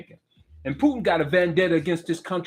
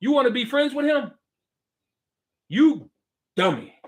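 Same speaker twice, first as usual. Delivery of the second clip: mock Trump voice. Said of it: "He's telling you now".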